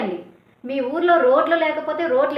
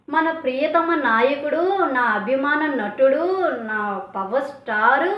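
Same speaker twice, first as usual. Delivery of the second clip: sarcastic quote; slower than usual. Retold or imitated. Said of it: "అందులో కూడా వెటకారం ఉంది".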